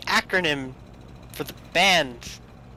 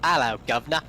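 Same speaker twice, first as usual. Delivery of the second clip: hammed-up Cockney greeting; mock London British accent; 3 semitones lower, faster than usual. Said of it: "I was talking about British accents".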